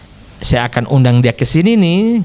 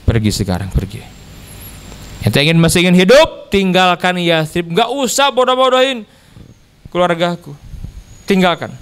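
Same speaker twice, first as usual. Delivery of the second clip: retold anger. Angry chief warning a preacher to leave Yathrib, retold anger. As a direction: act out an angry man ordering someone off. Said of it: "Datang marah-marah dia".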